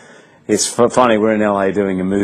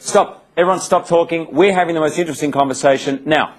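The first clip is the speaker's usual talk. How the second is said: higher, commanding mock hush to the table; imitating Oprah; 5 semitones higher than usual. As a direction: playfully boss the room like a hostess. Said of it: "And then she goes".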